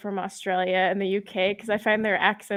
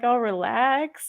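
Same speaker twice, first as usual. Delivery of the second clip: drawn-out, melting into calm; slow, relaxed release; soothed sigh of relief; slower than usual. Acted. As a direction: let it ooze out slowly. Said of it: "so soothing".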